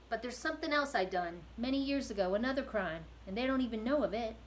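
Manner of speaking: a weary convict unburdening himself, a bit loud; gruff prisoner. Acted. Prisoner hints at worse crime.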